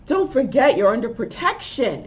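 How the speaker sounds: urgent, mildly scolding reminder; upset voice. Retold or imitated. Protective voice warns her under attack, mildly upset. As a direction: imitate a voice upset with the listener. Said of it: "and was upset with me".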